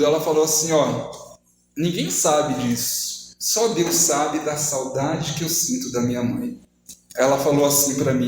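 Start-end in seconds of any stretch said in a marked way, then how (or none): 0.7-6.6 low, slow, subdued sorrow without sobs; understated imitation of someone crying, drawn out; retold tearful confession. Woman confiding she misses her mother, mildly sorrowful.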